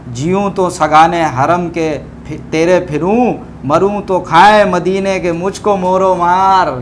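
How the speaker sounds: slow, measured recital of verse; poem recitation. Acted. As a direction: recite the couplet slowly, savouring each line. Recites the next couplet.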